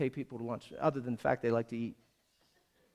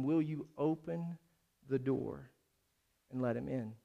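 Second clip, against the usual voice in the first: soft, subdued appeal; hushed close of a sermon, with pauses; gentle altar call; 4 dB quieter than usual. Real, not acted. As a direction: invite them quietly and sincerely. Soft altar call after loud preaching.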